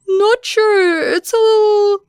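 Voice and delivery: officer calling down about a discovery. A narrator's reading. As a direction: call down from above. Officer voice again.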